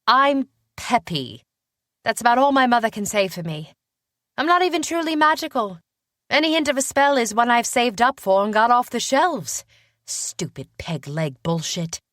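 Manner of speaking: high, loud self-deprecating complaint; exasperated, sulky young witch; pouting. A narrator's reading. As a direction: pout it out in a girlish British voice. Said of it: "she pouted".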